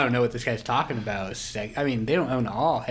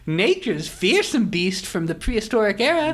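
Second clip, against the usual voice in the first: higher, louder hammed-up posh English gent; posh English accent; 11 semitones higher, 5 dB louder than usual. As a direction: play the Monopoly tycoon in a plummy English accent. Monopoly man pitches new pieces.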